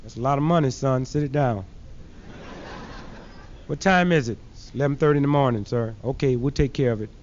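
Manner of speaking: low, unhurried voice of authority; deep professor voice. Retold or imitated. Professor taking the money, low and smooth.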